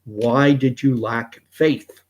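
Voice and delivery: slow, measured rebuke. Retold or imitated. Jesus rebuking a sinking Peter, in slow reproach. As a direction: ask it slowly as a mild reproach. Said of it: "Jesus rebuked him and said".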